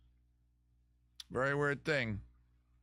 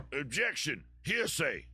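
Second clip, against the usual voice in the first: a light Southern drawl, raised and objecting; Southern lawyer; 4 semitones higher, slower than usual. Acted. A podcast host reads a listener's lawyer bit, in a light Southern accent. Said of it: "I'm a Southern, like, lawyer suddenly".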